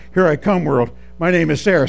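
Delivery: firmer, conversational-level declaration; gaining volume. Retold or imitated. Coached girl speaking up, gaining confidence. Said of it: "Say it louder".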